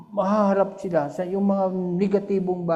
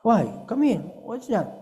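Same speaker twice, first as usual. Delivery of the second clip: higher, eager call to come over; lively questioning grandpa; curious grandparent; 5 semitones higher than usual. Retold or imitated. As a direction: beckon the kid, curious and bright.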